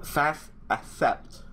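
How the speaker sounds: slow, breathy "fast accept" while typing; slow fumbling read. Real, not acted. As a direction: drag it out as you type. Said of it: "Can't type today".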